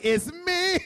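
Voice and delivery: squeaky high little voice; high mock confession. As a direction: play it coy and squeaky. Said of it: "He's like".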